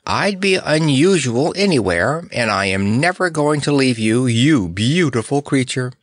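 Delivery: high, swooping, adoring declaration; elated character voice, pitch lifted; exultant. Acted. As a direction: gush in lilting triumph. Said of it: "exulted Snorer".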